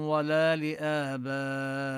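slow, measured Quran recitation with drawn-out vowels; careful chanted reading of the verse; tajweed recitation demo. Shown as a demonstration. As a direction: recite the verse slowly, stretching the long vowels. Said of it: "نمد مدا طبيعيا".

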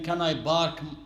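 "park" pronounced "bark". Acted. Newcomer asking to park, p said as b. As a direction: swap the p in "park" for a b. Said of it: "Don't say bark".

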